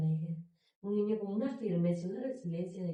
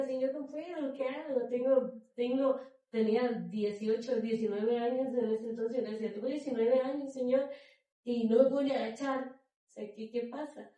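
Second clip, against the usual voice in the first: anguished plea; 4 semitones higher, 4 dB louder than usual. Retold or imitated. Retold desperate plea to the Lord.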